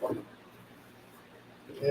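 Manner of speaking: ordinary talk, nothing marked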